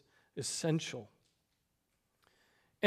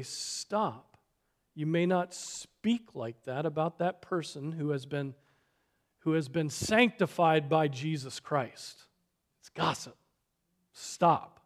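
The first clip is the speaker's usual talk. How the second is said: calm quoted warning; 2 semitones lower than usual. Shown as a demonstration. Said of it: "you have to say".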